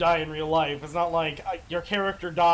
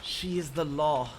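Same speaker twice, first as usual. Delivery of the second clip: menacing NPC voice; 4 semitones lower, 4 dB quieter than usual. Acted.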